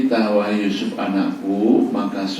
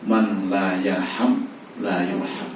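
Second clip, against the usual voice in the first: slow Arabic recitation; much slower than usual. Acted. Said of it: "reciting the Arabic hadith".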